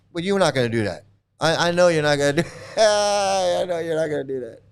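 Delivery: amused, fast, laughing dismissal; laughing knowing scoff. Real, not acted. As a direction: laugh off the idea. Laughing retort to opponent.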